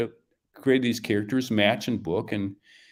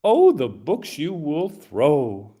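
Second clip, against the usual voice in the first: lightly voiced Kermie; 2 semitones higher, much slower than usual. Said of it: "a little Kermie voice".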